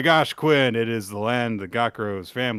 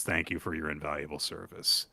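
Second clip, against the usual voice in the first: captain's voice; 8 semitones lower, 10 dB quieter than usual. Acted. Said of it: "and says".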